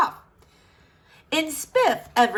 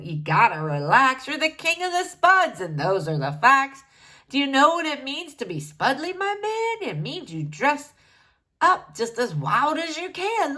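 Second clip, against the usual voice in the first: mellow hippie shaman; 3 semitones higher than usual. Acted. Shaman voiced, laid back.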